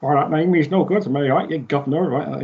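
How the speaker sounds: lightly hammed-up camp British villain. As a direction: ham up a British geezer accent a little. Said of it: "it just sounds so camp British".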